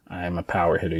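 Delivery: subdued, half-hearted recital; unconvinced. Shown as a demonstration. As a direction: say it quietly, as if you don't believe it. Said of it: "you can't even say it like this".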